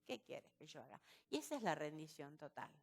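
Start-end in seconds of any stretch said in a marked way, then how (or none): 0.1-1.0 hushed, low, trembling-hearted submission; fearful surrender. Acted. Preacher voicing Saulo asking the Lord's will, fearful and hushed. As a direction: drop to a soft, humbled murmur. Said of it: "estaba temblando y temeroso".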